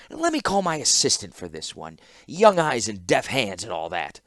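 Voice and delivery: lightly voiced oily clockmaker. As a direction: pass it off smoothly with a leer.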